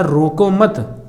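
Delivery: रोको मत as one slow unit, falling at मत; pause after मत. Shown as a demonstration. Teacher explaining the let-him-go reading, pause after मत. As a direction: bind मत to रोको, then stop. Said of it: "इसमें कहा गया है".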